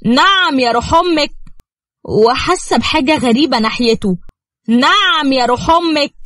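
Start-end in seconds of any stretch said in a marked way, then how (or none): 0.1-1.3 higher-pitched affronted retort; indignant challenge. Acted. Husband hears wife doubts him, indignant. Jealous husband reacts to wife's feeling. 4.7-6.2 indignant challenge. Acted. Husband reacts to wife's strange feeling, indignant.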